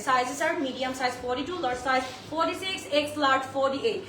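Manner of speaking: very slow, each size spelled out. Shown as a demonstration. Seller repeating sizes slowly for live viewers, very slow. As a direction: drag every size out so nobody misses it. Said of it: "একটু আস্তে কথা বলি".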